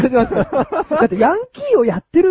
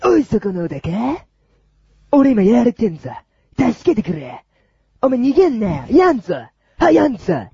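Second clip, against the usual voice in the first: delinquent tough talk. Pretend. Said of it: "ヤンキーをやります".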